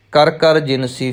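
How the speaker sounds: ਕਰ ਕਰ ਜਿਨਸੀ as one three-word group. Shown as a demonstration. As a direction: run ਕਰ ਕਰ ਜਿਨਸੀ together, then stop. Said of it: "ਫਿਰ ਤਿੰਨ ਹੋਏ". (ਕਰ ਕਰ ਜਿਨਸੀ ਤਿੰਨ ਸ਼ਬਦਾਂ ਦਾ ਇੱਕ ਜੋੜਾ)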